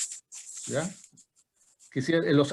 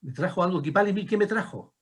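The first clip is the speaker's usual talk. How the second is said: higher-pitched, re-enacted questioning; retold question to pupils; 5 semitones higher than usual. Teacher recalling a question put to Mapuche-speaking pupils, high questioning voice. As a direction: ask it lightly in a raised pitch. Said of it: "una pregunta que le decía".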